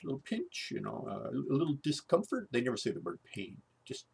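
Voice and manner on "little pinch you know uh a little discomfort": high, sing-song "little pinch"; mock-soothing doctor lilt. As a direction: coo "little pinch" up high to play down the pain. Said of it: "And he goes".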